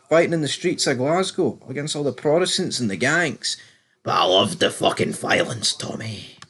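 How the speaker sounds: lightly voiced Scottish-Irish gangster accent; a hint of a Scottish gang boss. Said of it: "Tommy Flanagan, Big Walter Flynn, says".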